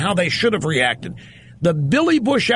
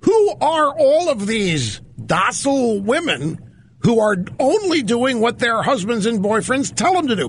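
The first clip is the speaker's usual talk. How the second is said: higher-pitched indignant protest; acted incredulous objection; mock indignation; 4 semitones higher than usual. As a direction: voice an outraged crowd demanding answers. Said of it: "And we all say".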